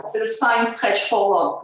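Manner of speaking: lightly English-accented "spine stretch forward"; a playful touch of English accent. Shown as a demonstration. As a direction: show off an English accent on the term. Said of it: "Vous avez vu un peu l'accent?".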